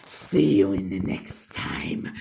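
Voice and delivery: whispered goodbye. Acted. Whispered sign-off ending the video.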